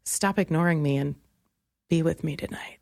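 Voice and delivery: low, breathy come-on whisper; mock seductive whisper. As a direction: whisper it like a sleazy booty call. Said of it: "how does it sound to them?".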